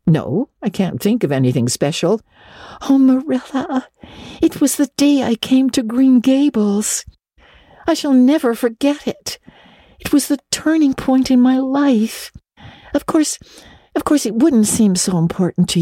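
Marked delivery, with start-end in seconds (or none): 2.9-12.3 a bit higher, heartfelt and eager; a lightly voiced girl gushing; fervent Anne. Girl reminds Marilla of her arrival day, fervent.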